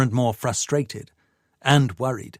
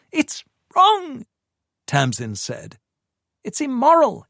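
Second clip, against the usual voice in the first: high, louder outraged protest; anguished woman; 13 semitones higher, 3 dB louder than usual. Acted. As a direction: push back hard, high. Tamsin protesting to Paul.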